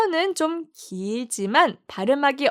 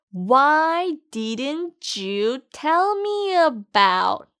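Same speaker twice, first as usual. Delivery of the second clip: "Why didn't you tell me about?" drawn out word by word, each sound separate; very slow demo; much slower than usual. Shown as a demonstration. Teacher slowly models the phrase for students to repeat. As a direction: spell it out slowly for learners to copy. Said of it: "그럼 같이 발음해 볼까요?".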